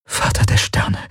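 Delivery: breathless whisper. Acted. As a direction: whisper it like a frightened prayer. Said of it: "flüsterte sie".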